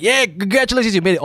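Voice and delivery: high-pitched mock cheer; mock congratulations. Host suggesting words for her younger self, mock congratulations.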